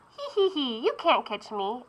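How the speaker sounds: mock the baker with a giggle; teasing beignet boy.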